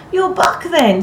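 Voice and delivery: high, loud, tentative greeting; uncertain. A narrator's reading. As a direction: venture it with a touch of uncertainty. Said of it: "the touch of uncertainty in his voice".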